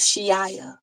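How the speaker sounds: Shiaya said slowly and deliberately; emphasis on Shiaya. Shown as a demonstration. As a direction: give the name Shiaya slow, careful weight. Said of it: "I can say it with such emphasis".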